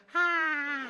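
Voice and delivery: high, drawn-out polite greeting; super polite hostess. Retold or imitated. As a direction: imitate an overly polite young hostess, high-pitched. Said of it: "super polite".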